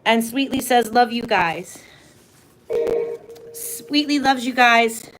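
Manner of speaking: breathless from running around; out of breath. Real, not acted. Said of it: "Sorry, I'm out of breath just running around".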